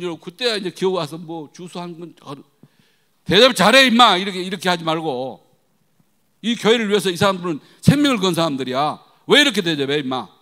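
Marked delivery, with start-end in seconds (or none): 3.2-10.3 very loud, sustained telling-off; forceful, indignant shouted lecture; retold angry shouting. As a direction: berate the church manager at full volume. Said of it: "막 그런 소리를 질렀어요".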